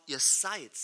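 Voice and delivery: seid hit firmly; stress on seid. Shown as a demonstration. Preacher pointing at the word seid. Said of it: "auf diesem Wort".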